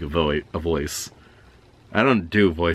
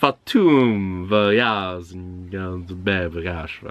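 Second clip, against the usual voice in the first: put-on Scandinavian accent; much slower than usual. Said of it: "mispronounced in a Scandinavian accent".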